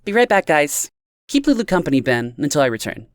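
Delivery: put-on high, bubbly tipsy girl voice; giddy tipsy friend. A narrator's reading. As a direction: play the giddy drunk friend. Amanda calling over her shoulder.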